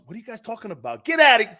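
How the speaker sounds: high, loud mock brash outburst; mock brash wife. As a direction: toss it out like a loud Northeasterner. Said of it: "and then my wife goes".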